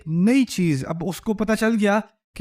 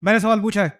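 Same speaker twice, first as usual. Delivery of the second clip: teacher; 3 semitones higher, faster than usual. Retold or imitated. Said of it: "teacher کیا کہتا ہے".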